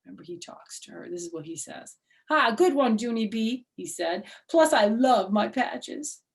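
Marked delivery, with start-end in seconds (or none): 2.3-6.2 lightly voiced toy elephant, same as Junie; a hint of a cheeky stuffed elephant; Philip Johnny Bob's voice. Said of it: "same actual talking voice".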